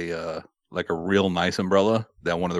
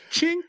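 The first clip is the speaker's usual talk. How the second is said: high-pitched little "chink" noise; imitated metallic chink. Telling his Kingsman entrance plan, imitated clink. Imitating umbrella sound in story.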